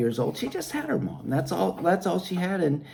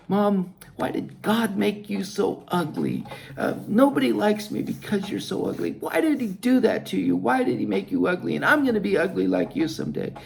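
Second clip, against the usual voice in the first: put-on higher child's voice, hurt and pleading; hurt little girl; 5 semitones higher than usual. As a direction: ask like a wounded little girl. Hurt child asks her mother.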